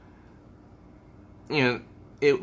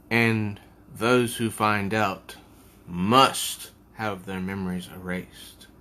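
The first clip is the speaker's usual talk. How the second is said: ominous; 4 semitones lower than usual. Acted. Magician warning about erased memories, ominous. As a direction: let the threat hang darkly. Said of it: "says something ominous".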